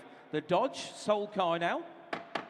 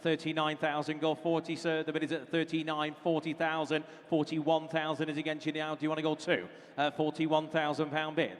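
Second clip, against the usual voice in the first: auctioneer. Acted. Auctioneer calling bids.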